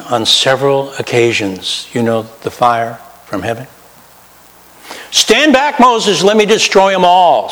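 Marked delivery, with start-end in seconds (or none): 5.1-7.5 much higher, booming divine command; a lightly hammed-up angry Lord. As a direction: play God fed up, ready to wipe them out. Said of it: "said the Lord".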